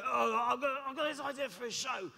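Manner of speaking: lightly voiced fashion designer musing over an idea; imitating McQueen. Musician imitating how the designer talked, light impression. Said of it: "This is how he talked".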